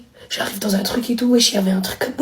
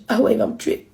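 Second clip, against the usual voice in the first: whispered fear; 5 dB quieter than usual. Retold or imitated. Frightened inner thought.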